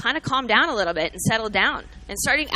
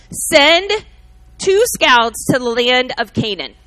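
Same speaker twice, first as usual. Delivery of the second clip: commanding Moses; 7 dB louder than usual. Acted.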